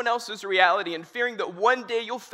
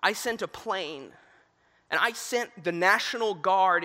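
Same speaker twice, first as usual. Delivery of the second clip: slow, patient fatherly God; calm God; slower than usual. Retold or imitated. God answers the drowned man: slow patient fatherly voice. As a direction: lay out each rescue slowly, patiently. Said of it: "And God says".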